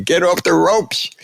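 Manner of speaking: slow, high-pitched mock yell; imagined corner yell. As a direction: drag it out like a corner man. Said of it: "which I probably would have yelled".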